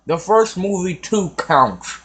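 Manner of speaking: talking around candy; candy in mouth; mouth full. Real, not acted. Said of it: "I got Jolly Rancher in my mouth".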